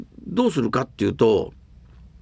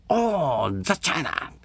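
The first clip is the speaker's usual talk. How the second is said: admiring whisper; 3 semitones higher, 3 dB quieter, slower than usual. Retold or imitated. Westerner admiring porcelain.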